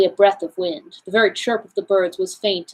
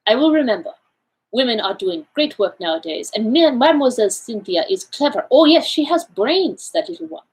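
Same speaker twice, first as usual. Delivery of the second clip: a fussy little foreigner, pitched up; Poirot; 3 semitones higher than usual. Acted. Poirot voiced by narrator.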